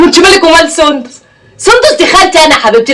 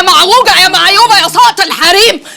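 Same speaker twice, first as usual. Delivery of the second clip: angry shouting; 2 semitones higher than usual. Acted. Daughter to rude newcomer over her father's photo, shouting angrily. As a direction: shout her down, indignant and insulting.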